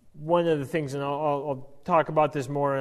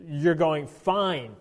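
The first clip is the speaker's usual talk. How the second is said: angry God; 3 dB louder than usual. Retold or imitated. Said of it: "God gets angry and he says".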